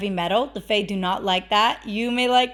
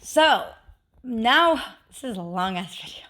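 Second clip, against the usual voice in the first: slightly winded, breathing between words. Real, not acted. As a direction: talk while short of breath. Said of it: "I'm out of breath".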